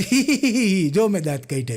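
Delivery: mock toothy giggle on hee hee; grinning laugh. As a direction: laugh it out like showing off teeth. Showing teeth grin laugh. (દાંત કાઢીને હસવું)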